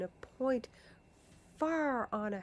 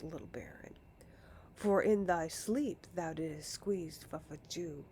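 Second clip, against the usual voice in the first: mock displeasure; 4 semitones lower than usual. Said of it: "said in a mock displeasure".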